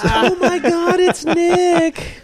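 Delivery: excited surprise. Real, not acted. Spots an actor on screen.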